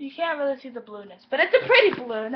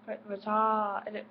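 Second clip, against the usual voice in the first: slow, drawn-out British try at "retarded"; restart, then stretch "retarded" in a shaky British accent attempt; 2 semitones lower, 4 dB quieter, much slower than usual. Shown as a demonstration. Failing to manage the word on camera, attempted British accent. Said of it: "I can't say it in a British accent".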